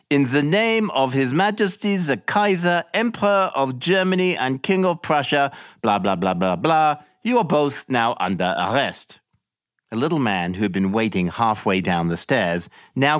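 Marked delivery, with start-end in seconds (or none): 0.1-9.2 higher, dismissive official droning the warrant, waving off with blah blah; official reading an arrest warrant. Acted. Blonde officer arresting the couple, mock-official higher voice. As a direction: rattle off the legal formula like a bored bureaucrat. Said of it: "read out".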